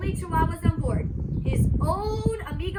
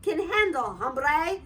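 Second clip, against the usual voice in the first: put-on Spanish accent. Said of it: "using his very best Spanish accent".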